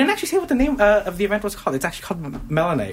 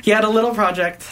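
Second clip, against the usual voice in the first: louder, faster restart; 4 semitones higher, 5 dB louder, faster than usual. Shown as a demonstration. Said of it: "and I'm talking in third person".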